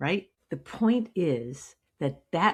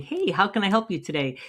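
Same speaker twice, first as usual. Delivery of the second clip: canned clerk greeting; 3 semitones higher, faster than usual. Shown as a demonstration. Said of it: "when you come out and saying".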